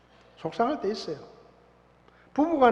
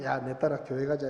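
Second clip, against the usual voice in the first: mock sweet parent; 4 semitones lower, 4 dB quieter than usual. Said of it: "이래놓고".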